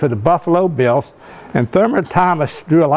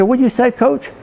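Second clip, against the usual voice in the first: stunned disbelief; 7 semitones higher than usual. Retold or imitated. Stunned player asks coach.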